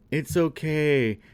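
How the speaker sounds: slow, put-on reassurance; mock consoling. Heroine to the crying troll in a retelling, mock consoling.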